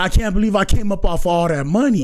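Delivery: high whiny mocking voice; mock crying girl. Streamer imitating the crying girl, high whiny. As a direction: squeak it out, fake-upset over the money. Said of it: "She said".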